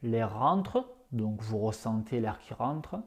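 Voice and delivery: calm yoga nidra guidance in short phrases; lightly hushed, unhurried instructions; guided meditation. Acted. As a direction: guide listeners into the breath, with long pauses. Leads the breathing practice.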